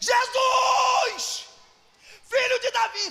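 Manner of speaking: acted loud shout. Speaker acts out a man crying out to jesus despite being hushed, retelling a loud shout. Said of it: "ele grita mais alto".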